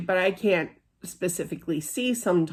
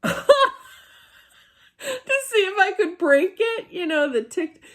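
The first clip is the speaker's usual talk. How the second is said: laughing; 10 semitones higher than usual. Real, not acted. Laughing at own ghost story.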